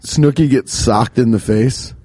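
slow, put-on British storytelling; British accent. Cohost retells the Snooki episode, mock British accent. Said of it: "we should have done Rumble Lips British".

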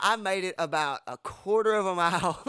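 laugh, wincing at the hurt; laughing through pain. Real, not acted. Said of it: "it hurts to laugh".

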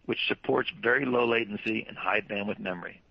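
normal talking voice

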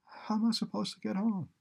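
high-pitched helpless plea; imploring question in a high voice; pleading. A narrator's reading. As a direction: beg for help, pitch well up. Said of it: "she pleaded for the first time".

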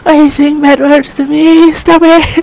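very high, slow Chinese-accented protest; angry Chinese accent. Shown as a demonstration. Friend repeating the parody rant, angry Chinese accent. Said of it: "do it like a damn Chinese accent".

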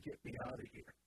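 soft unvoiced aside; whispered quote. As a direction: breathe it out mockingly. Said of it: "it isn't".

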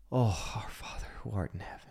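soft, whispered prayer. Retold or imitated. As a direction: pray under your breath. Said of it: "for hours and hours nonstop".

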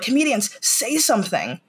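high-pitched mock appeal to performers; mock pleading. People in lockdown calling on comedians, mock pleading. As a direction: imitate an urgent demand, pitched high. Mimicking the public urging comedians.

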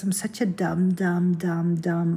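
hushed, berating yourself; whispered self-scolding. Real, not acted. Blaming herself for the passport mess, hushed whisper. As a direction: mutter it under your breath, embarrassed.

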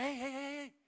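a lightly voiced gentle inner voice; a hint of a tender divine voice; Holy Spirit's voice. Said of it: "kwam de Heilige Geest met zijn stem en zei".

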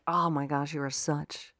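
low, muted inner critic; quiet, disgusted self-scolding; negative self-talk. Acted. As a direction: berate yourself under your breath. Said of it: "negative self-talk in my head would sound".

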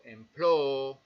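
"employ" stretched very slowly; employ muy lento; slow English word. Shown as a demonstration. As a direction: sound out "employ" syllable by syllable. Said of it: "grupo U G H o G H".

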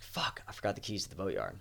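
half-whispered curse to oneself; retold private dismay. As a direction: say it softly under your breath. Retelling sudden realization to himself.

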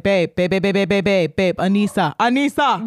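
repeated insistent calls, mock alarm; alarmed waking call. Partner waking a sleeping partner over a spider, mock alarm. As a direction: keep calling to rouse a sleeper, rising at the end. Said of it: "alarmingly wake me up".

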